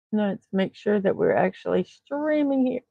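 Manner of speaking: talking through hiccups; small hiccup catches in the words. Real, not acted. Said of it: "got the hiccups".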